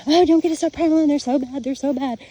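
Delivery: high, loud, fast sing-song mockery of a worrier; mocking naysayer voice. Mocking people who warn against subprime loans, high loud fast mock whine. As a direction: ham up the whiny warning, quick and shrill.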